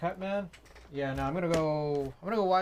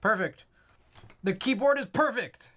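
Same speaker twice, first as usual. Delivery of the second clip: muffled by a balaclava; through a balaclava; 5 semitones higher than usual. Real, not acted. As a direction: talk through a face mask. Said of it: "get the balaclava back on".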